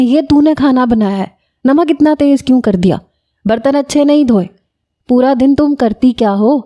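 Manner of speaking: mock scolding mother-in-law. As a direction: ham up a nagging saas. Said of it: "آپ زونی کی چٹیاں پکڑ کے کھینچیں". (طنزیہ ساس کی ہلکی نقل)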